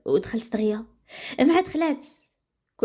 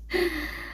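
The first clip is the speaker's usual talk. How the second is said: short, soft chuckle; amused laugh; 5 semitones higher, 7 dB quieter than usual. A narrator's reading. Professor amused by the student's proposal, soft chuckle. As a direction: let out a small quiet laugh. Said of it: "انيس جا الضحك".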